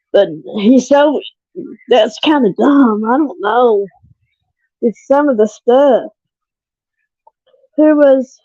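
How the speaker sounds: nervous, trembling voice; shaky voice. Real, not acted. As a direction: voice wobbling from nerves. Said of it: "my voice is shaking".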